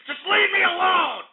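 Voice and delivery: real exasperated shout at the trolls; desperate shout. Real, not acted. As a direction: yell it out, fed up and desperate. Begging trolls to stop.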